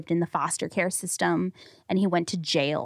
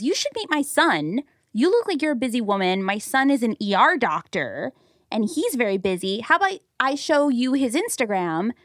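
higher-pitched imitated Middle Eastern accent; 4 semitones higher than usual. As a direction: play a matchmaking driver with a Middle Eastern accent. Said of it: "I can't even do the accent".

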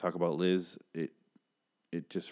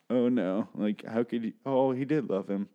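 shocked gasp; 5 semitones higher, 4 dB louder than usual. Retold or imitated. Reliving shocked reaction to scene.

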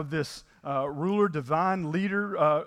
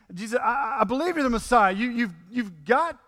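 higher, louder pleading as Peter; a disciple urging his master, higher and louder; Peter's desperate plea; 6 semitones higher, 5 dB louder than usual. Retold or imitated. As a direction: beg Jesus to stop, voice pushed up high. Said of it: "here's Peter, maybe his plea".

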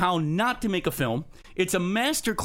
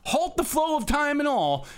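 dramatic movie quote; 9 semitones higher than usual. Retold or imitated. Quoting Star Crash line.

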